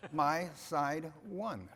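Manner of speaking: slow, laughing repeat of the line; slowly repeating it while laughing. Real, not acted. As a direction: savor the punchline through a chuckle.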